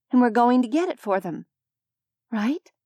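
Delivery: gently soothing, steady and calm; reassuring. Acted. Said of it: "tried to shape my voice into something reassuring".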